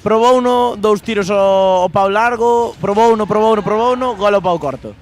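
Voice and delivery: excited replay call. Real, not acted. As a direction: relive the goal out loud. (narración emocionada)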